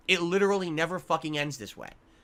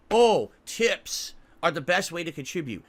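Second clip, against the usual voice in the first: mocking sing-song. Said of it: "I fucking hate saying that".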